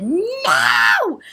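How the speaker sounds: high, loud shouted no; screamed no. Retold or imitated. Yelling at a rat in her kitchen, loud scream. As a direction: yell it at the rat in panic. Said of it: "I screamed".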